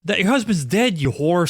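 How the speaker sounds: high, scornful comeback; retold insult thrown back at the wife; mock angry retort. Acting out mayor snapping back at wife.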